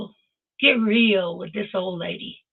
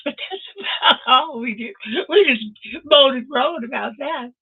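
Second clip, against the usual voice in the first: higher voice breaking into laughter; laughing; 3 semitones higher, 5 dB louder than usual. Real, not acted. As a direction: laugh through a light-hearted admission. Joking about the group's petty jealousy.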